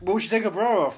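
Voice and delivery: loud mock MC patter; lightly hammed-up compere, stretching the punchline; strip club announcer. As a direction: sell the film pun like a club MC. Continuing the strip club MC act.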